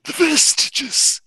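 slow, halting otherworldly character voice; Exothanter. Acted. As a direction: draw each phrase out in a strange creature voice. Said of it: "Exothanter says".

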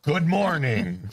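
slow, high, growly monster greeting; Kraken morning voice. Shown as a demonstration. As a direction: stretch it out like a waking sea monster. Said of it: "That's my morning voice".

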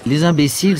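high, loud cry of scorn; scornful exclamation. Acted. Rastignac lecturing his friend Raphaël, scornful exclamation. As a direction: exclaim it loudly, pitched well up.

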